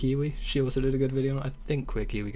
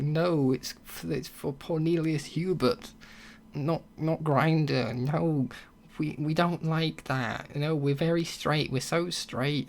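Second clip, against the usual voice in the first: slightly higher, drawn-out mock protest; mock defensive; 3 semitones higher, slower than usual. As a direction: imitate a slow, flustered denial. Mimics super straight defenders' denial.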